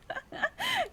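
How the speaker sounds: high burst of laughter. Real, not acted. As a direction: laugh out at the absurdity. Laughs at crying character.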